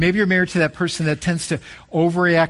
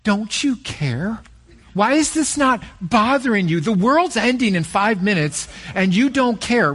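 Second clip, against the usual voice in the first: higher, pleading, upset spouse; exasperated spouse; 5 semitones higher than usual. Retold or imitated. Preacher voicing an overreacting spouse, mildly exasperated. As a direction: plead like a spouse who feels ignored. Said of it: "they will use words like".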